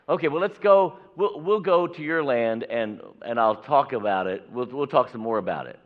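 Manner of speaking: a greedy man jumping at the offer, loud and high; eager agreement. Acted. Balaam tempted by the king's money, loud and eager.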